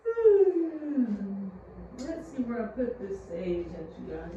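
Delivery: sleepy yawn through the words; talking mid-yawn. Real, not acted. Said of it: "My bad, I'm yawning".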